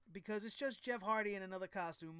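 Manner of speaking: ordinary talk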